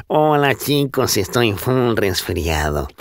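heavy cold voice, slow and nasal; stuffy nasal voice. Shown as a demonstration. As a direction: talk through a blocked nose. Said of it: "voy a estar hablando así".

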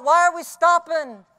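loud, puzzled call from the back; yelling out. Retold or imitated. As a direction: shout the question forward. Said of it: "Troy Sims yells out".

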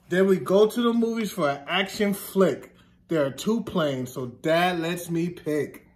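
slow, sing-song picture book reading; story reading. Acted. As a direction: read it to the kids with a gentle rhythm. Reads picture book to children.

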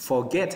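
forget, rising weight on GET; stress on second syllable. Shown as a demonstration. Teacher drills forget, voice lifted on GET. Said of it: "lên giọng ở cái âm hai nè".

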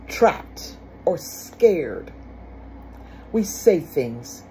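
trapped or scared drawn out very slowly, word by word; slow emphasis. Shown as a demonstration. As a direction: lay each word down slowly for weight. Slowing down to stress the point.

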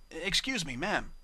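prim, airy politeness; sweetly polite, putting on airs. Acted. Octavia politely asking the bar mare, airy tone. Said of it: "put on her most airy and polite tone".

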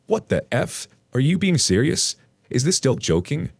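high, disbelieving questions; incredulous. Acted. Acted disbelief at her confession.

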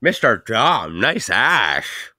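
lightly voiced lisping kid. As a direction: lisp through it like a kid. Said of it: "a kid with a crazy lisp".

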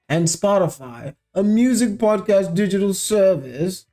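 lightly put-on British newsreader. Host reads the Sussexes' joint statement, British voice. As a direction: read it out in a mock British royal accent. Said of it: "saying this British voice".

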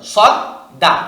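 "সদ দা" with the d doubled; tashdid doubling. Shown as a demonstration. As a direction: hold the d between "সদ" and "দা". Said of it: "এটা হলো তাসদিদের উচ্চারণ". ("সদ দা"-র দাল দুইবার চেপে উচ্চারণ)

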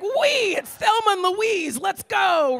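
high, loud whoop of glee; a giddy joyride cheer; reckless glee. Retold or imitated. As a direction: ride the thrill, wide open. Reckless thrill about bad choices.

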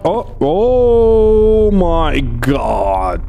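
long, drawn-out oh my God; shocked. Real, not acted. Player startled by a horror game sight, shocked. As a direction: stretch it out in stunned disbelief.

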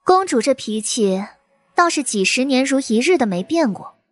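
coolly taunting; mocking. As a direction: needle her with contempt. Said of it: "语气也越发的嘲讽了".

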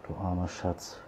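pitying comfort. Real, not acted. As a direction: comfort the hurt kitten quietly. Comforting the bullied kitten. (leises Mitleid mit dem Kätzchen)

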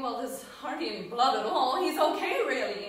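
rising, hopeful, quick to reassure; hopeful child. Retold or imitated. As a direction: talk herself into it's fine. Child hoping the deer lives.

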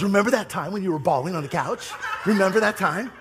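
fast, laughing tease; teasing laugh. Retold or imitated. Wife teasing the pastor about crying, laughing. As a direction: needle him while laughing. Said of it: "begins to laugh".

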